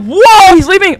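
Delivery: loud, high startled shout; alarmed. Real, not acted. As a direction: blurt it out in alarm. Alarmed that helper leaves.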